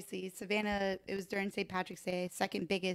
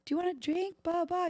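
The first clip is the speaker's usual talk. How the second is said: chirpy offer; 10 semitones higher than usual. Retold or imitated. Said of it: "I was like".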